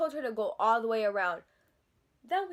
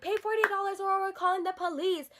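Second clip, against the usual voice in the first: high, mocking threat; mock her ultimatum in a raised voice; mimicked salon worker; 8 semitones higher than usual. Teller imitating salon worker's police threat, mocking mimicry.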